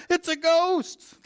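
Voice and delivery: high, slow, drawn-out frightened cry; terrified cry. Acted. Disciples shrieking in fear at figure on the water, terrified. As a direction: wail it like you've seen a ghost.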